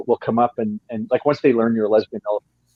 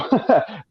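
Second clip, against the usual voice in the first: short laugh, pitched up; brief put-on chuckle; imitated laugh; 7 semitones higher than usual. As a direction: act out laughing at someone's joke. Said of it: "and you go".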